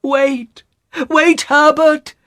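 high, loud, drawn-out call; desperate high-pitched mother's shout; urgent cry. A narrator's reading. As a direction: call to your son to wait. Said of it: "she cried".

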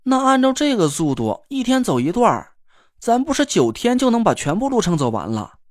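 sulky. Acted. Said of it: "好像挺不高兴的样子".

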